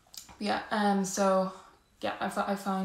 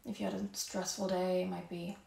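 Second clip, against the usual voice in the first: calm yoga-teacher voice, softer than chatting; guided yoga breathing; 7 dB quieter than usual. Real, not acted. Yoga teacher guiding the class to notice their breath, calm and soft. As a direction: ease them gently into the breath, unhurried.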